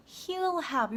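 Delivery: HE'LL HAVE run together as hyul-hab; natural contraction. Shown as a demonstration. Teacher showing what learners hear, contracted he'll have. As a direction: squeeze HE WILL into one HE'LL. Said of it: "요렇게 들리시죠".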